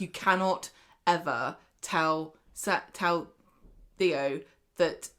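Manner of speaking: slow, word-by-word warning; emphatic warning. Retold or imitated. Todd warning Sarah to keep it from Theo, emphatic. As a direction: spell out the warning with deliberate pauses.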